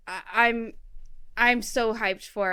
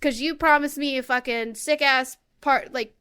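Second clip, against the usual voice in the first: mock rant; 3 semitones higher, 3 dB louder than usual. Ranting at Tom Nook.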